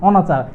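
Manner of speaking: rounded "oh" opening অনাচার; অনাচার with its first vowel closed to "oh". Shown as a demonstration. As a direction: pronounce অনাচার as "oh-na-char". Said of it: "ও দ্বারা উচ্চারণ করলে".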